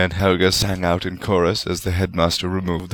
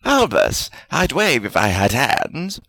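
happy; 7 semitones higher, slower than usual. A narrator's reading. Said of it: "Salazar said happily".

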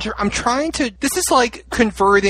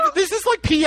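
laughing in disbelief; 10 semitones higher than usual. Real, not acted. Stunned host laughing in disbelief.

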